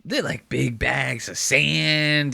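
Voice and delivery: high then slow dreamy bluff; mock clueless guy. Retelling the movie scene, a clueless guy bluffing slowly. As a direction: fake expertise, slowly. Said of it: "he's like".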